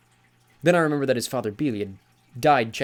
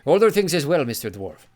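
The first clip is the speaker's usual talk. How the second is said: higher, louder lofty god voice with a touch of a frown; miffed sea god; 5 semitones higher, 8 dB louder than usual. Acted. Sea god corrects the dwarf, mildly piqued. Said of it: "Njord frowned".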